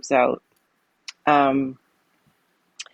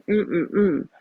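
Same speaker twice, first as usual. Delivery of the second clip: imitated closed-mouth "mm, mm, mm", pitched up; intubated mumble; 4 semitones higher than usual. Intubated patient trying to talk to daughters, imitated muffled hum. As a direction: hum three urgent syllables as if unable to speak. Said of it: "you're intubated".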